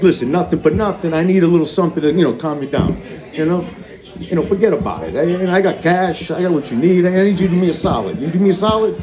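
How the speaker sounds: Brooklyn hustler asking a favour; Brooklyn accent. Acted. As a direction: work the deal in a mild Brooklyn accent. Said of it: "the Brooklyn in me comes out".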